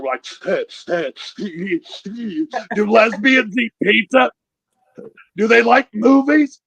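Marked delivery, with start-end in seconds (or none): 0.3-2.7 hammed-up whimpering sobs; mock child sobbing. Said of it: "we fucking lose it". 2.7-6.6 put-on high, loud wail of confused children; mock kids' bawling. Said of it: "we fucking lose it".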